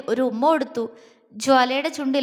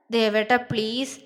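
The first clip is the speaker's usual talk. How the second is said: pleading; 3 semitones lower, slower than usual. A narrator's reading. Wife begging her husband to take leave, slow pleading. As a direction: coax him into staying home, drawn out. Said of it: "അവൾ കെഞ്ചി നോക്കി".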